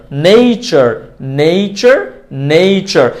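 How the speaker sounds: drawn-out নেচার as "nei-chor"; correct pronunciation. Shown as a demonstration. Teacher drilling learners, slow নেচার with ei. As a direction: stretch the ei glide in নেচার. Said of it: "So this is".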